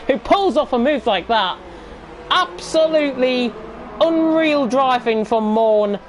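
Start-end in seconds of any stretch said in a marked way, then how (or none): 2.3-6.0 excited commentary. Real, not acted. Praising overtake, drawn out.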